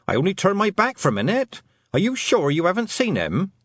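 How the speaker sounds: high, distraught mother; panicked. Acted. Mother who only turned her back a minute, panicked. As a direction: plead with rising panic, pitched well up. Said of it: "a wild look in her mother's eyes".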